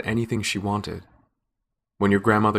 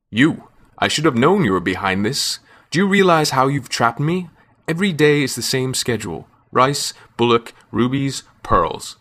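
loud, high, fed-up complaint; exasperated outburst; 4 semitones higher, 5 dB louder than usual. Acted. Brahma rails at the man who trapped him, loud and exasperated. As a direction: vent like a god worked to the bone.

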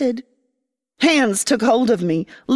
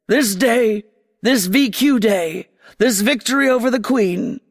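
commander's speech. Acted.

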